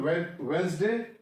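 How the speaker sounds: Wednesday said as "Wensday", no first d; silent D. Shown as a demonstration. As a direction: drop the D in Wednesday. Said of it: "Wednesday में भी D silent है". (Wednesday में D silent)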